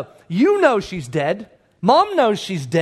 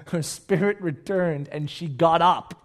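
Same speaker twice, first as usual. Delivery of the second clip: slow, deliberate scripture line; measured, weighty statement in one run; emphatic reading; 5 semitones lower, slower than usual. Acted. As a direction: repeat it firmly, stretching the key words. Repeats the miracle more firmly.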